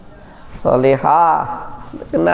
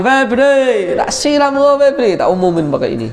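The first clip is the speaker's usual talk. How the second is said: mock threat call; 8 semitones higher than usual. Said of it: "aku tiap pagi".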